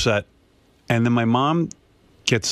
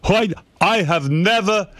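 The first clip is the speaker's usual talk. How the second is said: higher, slower mock voice of a bossy father; father scolding mother over the fortune, higher mock voice; imitating her father; 9 semitones higher, slower than usual. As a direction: put on dad's fussy scolding voice, drawn out. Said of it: "He was like".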